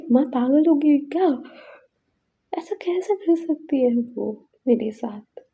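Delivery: mildly acted weeping, pleading and hurt; retold crying. Son protests to his absent mother, in mild mock tears. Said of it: "ऐसा बोल के वो रो रहा था".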